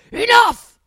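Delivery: high, very loud one-word outburst; shouted dad voice. Retold or imitated. Wife imitating husband snapping at their son, shouted dad voice. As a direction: imitate a dad losing his temper. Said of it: "I did the one dada voice".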